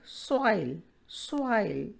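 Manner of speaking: SOIL with the vowel gliding from one sound to the next; diphthong demonstration. Shown as a demonstration. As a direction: model "soil" as a teacher, two vowels in one syllable. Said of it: "the sound begin with one vowel". (soil में दो स्वर एक साथ मिलाकर बोलें)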